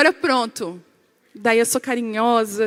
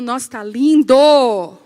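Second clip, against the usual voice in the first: loud, drawn-out compliment turning into an order; mock bossy outburst; 7 dB louder, slower than usual. Wife checking husband's outfit, loud and bossy. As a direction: act out blaring praise then commanding. Esposa elogia e manda trocar.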